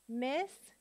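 Miscellaneous in five separate beats, miss, sell, lay, knee, us; long pauses between the syllables of Miscellaneous. Shown as a demonstration. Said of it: "Let's sound it out".

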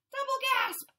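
high, loud dramatic gasp; hammed-up gasp. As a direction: gasp it out theatrically. Fish runs out of air.

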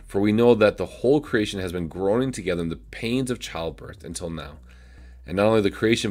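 measured, solemn Bible reading; scripture reading. Acted. Pastor reads Romans eight to his viewers, solemn reading. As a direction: read the verses with reverent weight.

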